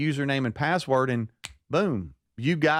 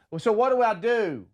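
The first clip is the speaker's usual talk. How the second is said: flustered mom; 9 semitones higher than usual. Retold or imitated. Mom asks, overwhelmed by the app.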